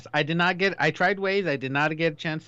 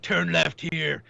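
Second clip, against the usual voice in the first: lightly voiced, very slow Batman whisper; much slower than usual. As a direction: drag it out slowly like Batman. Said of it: "He's like".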